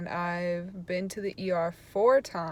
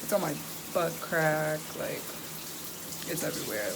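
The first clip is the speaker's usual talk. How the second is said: talking in the shower. Real, not acted. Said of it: "I'm in the shower right now".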